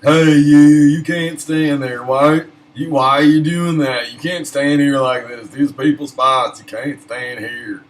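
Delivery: loud, high furious yelling; cranky old man shouting; angry old man yelling. Retold or imitated. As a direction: scream at him to get out of the spot. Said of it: "start yelling at me".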